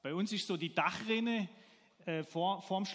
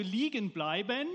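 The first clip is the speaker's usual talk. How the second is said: "bleiben" given clear, loud emphasis; stress on bleiben; 5 dB louder than usual. Shown as a demonstration. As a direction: lean firmly on the word "bleiben". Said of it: "Betonung liegt auf bleiben". (Betonung deutlich auf „bleiben“)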